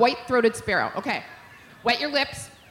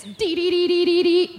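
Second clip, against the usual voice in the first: higher, clipped "Dee, dee, dee"; intense chickadee call; 8 semitones higher, 4 dB louder than usual. Shown as a demonstration. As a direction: chirp it like an angry bird. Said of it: "So that gets intense".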